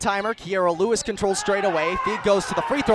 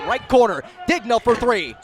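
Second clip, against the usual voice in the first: louder with each beat as the ball rattles around; building excitement; 5 dB louder than usual. Real, not acted. Play-by-play caller following a rattling three, building louder excitement. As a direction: ride the suspense of the shot. Shot rattles out, live call.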